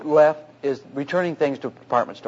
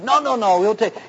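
higher, emphatic retold overruling; repeated noes pitched up high; insistent refusal; 5 semitones higher than usual. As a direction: imitate the clerk cutting off objections. Retold tug over keeping the paint.

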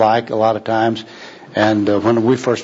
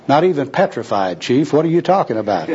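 mildly disgusted, slightly raised retort; 2 semitones higher than usual. Acted. Bum retorts to jargon-spouting worker, mildly disgusted. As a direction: answer back with a touch of disgust. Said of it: "And disgustedly, the bum said".

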